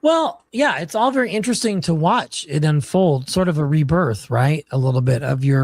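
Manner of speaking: harsh clipping bad microphone; clipping distorted mic. Real, not acted. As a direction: voice crackling through an overloaded mic. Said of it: "your mic is distorting really bad on my end".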